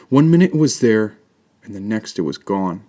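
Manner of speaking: put-on little boy. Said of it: "said the boy".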